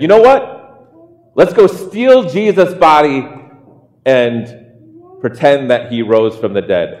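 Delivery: lightly voiced plotter pitching an idea; a hint of a sly conspirator; scheming disciple. Disciple proposing to the others a mock scheme, lightly voiced. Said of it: "a satire of the disciples".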